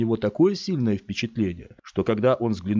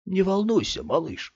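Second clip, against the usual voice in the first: higher, eager voice; excited stranger; 10 semitones higher than usual. A narrator's reading. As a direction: let the excitement slip. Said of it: "выдав голосом своё возбуждение".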